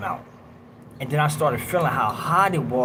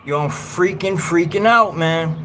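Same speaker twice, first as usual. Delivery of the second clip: raised, louder imitation of a man starting to freak out; mild rising panic; 3 semitones higher, 4 dB louder than usual. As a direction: act out someone beginning to lose it. Retells van-mate starting to panic.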